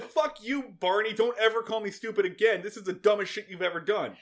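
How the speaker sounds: high-pitched, exaggerated retort; lightly hammed-up indignation; mock angry telling-off. Host paraphrasing Gomer scolding Barney, mock indignant. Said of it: "he said".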